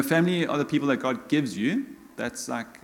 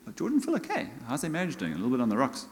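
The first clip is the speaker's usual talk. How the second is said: concerned friend; 4 dB quieter, faster than usual. Retold or imitated. Friend's friend asking after the marriage, mild mock concern.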